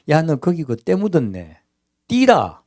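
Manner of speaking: a touch of a rude neighbour pointing out a stain; lightly voiced blunt remark; blunt mock rebuke. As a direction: mildly scold about the dirty clothes. Acted blunt remark to someone.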